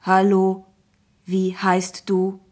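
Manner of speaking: slow, even-toned talking app; friendly app voice. A narrator's reading. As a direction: speak like a friendly computer, evenly paced. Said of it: "sprach eine freundliche Stimme". (freundliche, gleichförmige Computerstimme)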